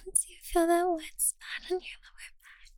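soft, unvoiced whisper, very close; intimate whisper. Lover whispering close to her partner, a hushed intimate whisper. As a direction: keep it hushed and tender, all breath.

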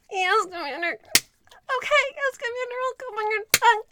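fast, breathless submission; breathless surrender. Acted. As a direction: give in all at once, excited. Giving in at climax.

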